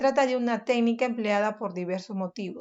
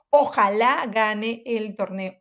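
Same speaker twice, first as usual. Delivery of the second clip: wishful; 5 dB louder, slower than usual. Shown as a demonstration. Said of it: "Es una oración desiderativa porque es un deseo".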